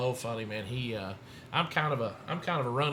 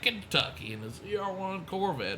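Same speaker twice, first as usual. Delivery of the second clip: higher, louder mock announcer voice; imitating track announcer; 4 semitones higher, 5 dB louder than usual. Announcer introducing a world record attempt, imitated. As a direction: project like an announcer introducing a racer. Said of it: "He comes on the announcer stand".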